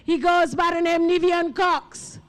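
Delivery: rally speech. Real, not acted. MC rallies crowd, introduces singer.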